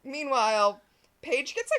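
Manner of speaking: normal talking voice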